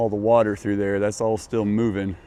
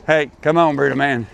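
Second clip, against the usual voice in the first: calling the dogs; 6 semitones higher, 5 dB louder, faster than usual. Real, not acted.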